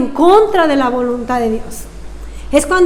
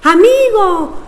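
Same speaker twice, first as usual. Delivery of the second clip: calling out; 5 semitones higher than usual. Retold or imitated. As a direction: shout to the friend drifting upstream. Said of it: "y le grita".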